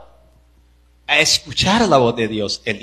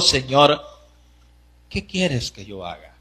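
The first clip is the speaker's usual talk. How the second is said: trembling and fearful; 4 semitones lower, 6 dB quieter than usual. Acted. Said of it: "Él temblando y temeroso dijo".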